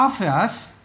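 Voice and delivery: "Obvious" slowly, stress on OB; first-syllable stress. Shown as a demonstration. Teacher showing where the word is stressed, first-syllable stress. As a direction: lean on OB in "Obvious". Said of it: "âm đầu".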